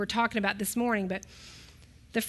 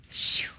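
long relieved exhale; dramatic sigh; 3 dB quieter than usual. Real, not acted. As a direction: let out a big sigh of relief. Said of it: "big sigh".

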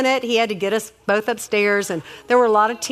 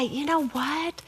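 feigned obliviousness; 4 semitones higher, 8 dB quieter, slower than usual. Shown as a demonstration. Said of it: "not the tone of voice that my ears hear".

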